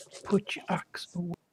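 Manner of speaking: very quiet, secretive whisper. A player leans over to Bracy and whispers in his ear: whispering really quietly. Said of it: "whisper in his ear really quietly".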